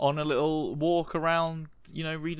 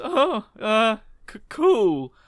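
casual cool; 10 semitones higher, 7 dB louder, slower than usual. Acted. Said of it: "And he goes".

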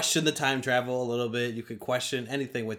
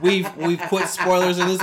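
laughing, higher and louder; 8 semitones higher, 11 dB louder than usual. Real, not acted. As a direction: talk through laughter. Laughing after the spoilers joke.

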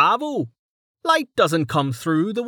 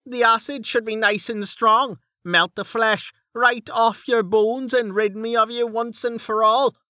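much higher, exasperated rant; Dell, fed up; 11 semitones higher than usual. Acted. Dell loses patience with Mig, a much higher exasperated rant.

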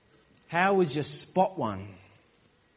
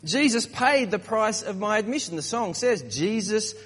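higher-pitched, mock-cocky believer; 4 semitones higher than usual. Smug Christian boasts of a ticket to heaven, mock cocky. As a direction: play a lightly cocky churchgoer. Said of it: "A little bit too cocky".

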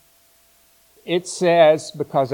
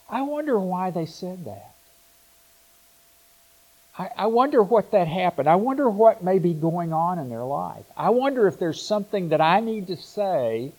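higher-pitched, musing self-questioning; thoughtful wondering; 5 semitones higher than usual. Acted. Responsive person asking himself why they said that, thoughtful wondering. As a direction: wonder aloud, trying to understand the other person.

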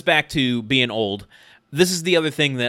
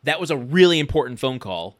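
mildly indignant, louder start; stomping-mad son; 4 dB louder than usual. Retold or imitated. Son stomping downstairs to confront Dad, mock indignation. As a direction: scold Dad in a mock teenage huff. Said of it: "Mark comes stomping down the stairs and says".

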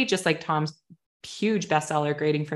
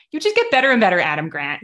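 gushing; 3 semitones higher, 6 dB louder, faster than usual. Retold or imitated. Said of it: "I was like".

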